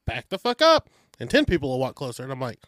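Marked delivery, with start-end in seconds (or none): 0.1-0.9 higher, louder cussing order; angry command. Retold or imitated. Officers losing patience with the crowd, loud angry order. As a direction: bark it at the crowd closing in. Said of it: "they're like".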